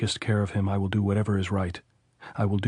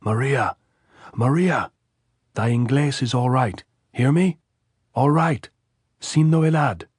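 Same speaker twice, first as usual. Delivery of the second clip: loud, higher shout carried across the hillside; calling from below; 5 semitones higher, 5 dB louder than usual. A narrator's reading. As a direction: yell it up from the timber to reach her. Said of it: "she heard the big, deep voice from the timber below".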